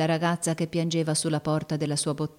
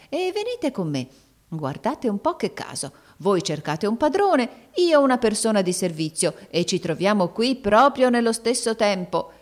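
put-on sweet-talking old woman. Old woman lures the crying girl, coaxing and sugary. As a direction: wheedle the girl kindly but falsely.

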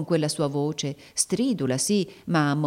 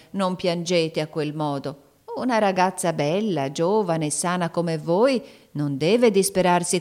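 put-on sweet-talking old woman; 2 semitones higher, 4 dB louder than usual. Old woman lures the crying girl, coaxing and sugary. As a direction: wheedle the girl kindly but falsely.

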